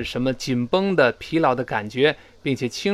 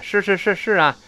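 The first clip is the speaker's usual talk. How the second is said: a touch of huffy impatience; acted, grudging agreement; slightly displeased. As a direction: rattle it off as a mildly miffed girl. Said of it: "女孩呢有点不高兴，把这语气带出来".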